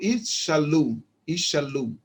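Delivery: "Ishalu" slowly, with a very faint E after the sh; weak E demo. Shown as a demonstration. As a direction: sound out "Ishalu", its middle vowel weak. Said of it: "o som de um E bem fraco".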